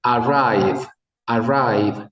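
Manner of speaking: "Arrive, arrive" lento y articulado; lip-reading demo. Shown as a demonstration. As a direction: repite "arrive" marcando cada sílaba. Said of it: "observe mis labios". ("arrive" exagerado para leer los labios)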